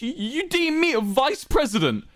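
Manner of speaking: high, stammering outrage; indignant rage. A narrator's reading. Wilbur insulted by the vice president offer, outraged. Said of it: "trying to contain his rage".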